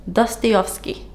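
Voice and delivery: Dostoevsky said deliberately as "Dus-tee-off-skee"; careful retry. Real, not acted. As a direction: try Dostoevsky carefully, sounding every syllable. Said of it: "I'm butchering this so badly".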